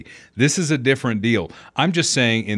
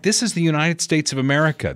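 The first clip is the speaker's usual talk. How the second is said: mock Biden outrage; 6 semitones higher than usual. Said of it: "it's how he said it".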